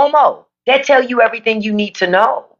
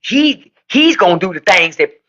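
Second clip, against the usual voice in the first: mocking imitation; 3 semitones lower than usual. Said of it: "You would have swore he just got freed from the fucking fields".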